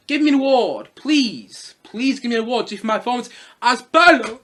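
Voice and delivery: mock pleading for an award; Jared Leto. Reviewer imitating an actor begging for recognition, mock pleading. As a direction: beg with hammed-up insistence. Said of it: "feel like Jared Leto going".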